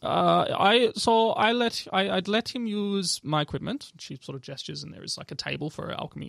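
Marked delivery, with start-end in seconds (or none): 0.0-3.9 lightly voiced, higher elf shopkeeper; elf woman. Elf alchemist tells of lending equipment, accented and higher. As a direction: explain in a slightly raised accented voice. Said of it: "elf woman come out".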